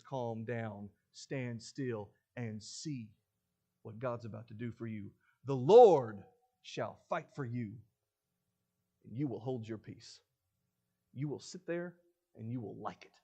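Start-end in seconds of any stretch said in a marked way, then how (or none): 0.0-10.2 calm. Retold or imitated. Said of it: "Moses says".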